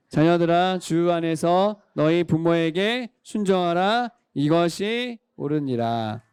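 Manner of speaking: slow, measured read-along of a verse; scripture reading. Real, not acted. Leads children reading the verse aloud. (천천히 낮게 함께 읽는 성경 봉독)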